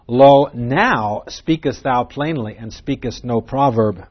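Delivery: slow reading, leaning on now; stress on now. Shown as a demonstration. Preacher reads the disciples' verse, stressing now. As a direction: weigh the word now. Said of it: "The emphasis is on the word now".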